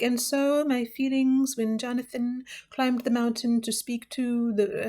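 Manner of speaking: slow, lightly put-on gushing book club member; mock book club lady. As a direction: parody a woman sharing her feelings, slowly. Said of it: "Just like".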